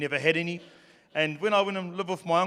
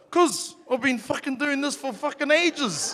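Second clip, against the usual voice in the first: high, slow, indignant whine; whiny kid complaint; 9 semitones higher than usual. Retold or imitated. Twelve-year-old nephew whining at his uncle for a pay rise, high and slow. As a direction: drag it out like a hard-done-by kid.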